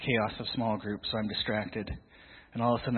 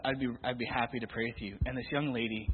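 usual speaking voice

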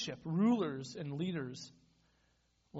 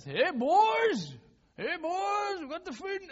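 high, loud sing-song call; calling cows; 13 semitones higher, 9 dB louder, slower than usual. Retold or imitated. Farmer calling his cows to come and eat, high and loud. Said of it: "and he's like".

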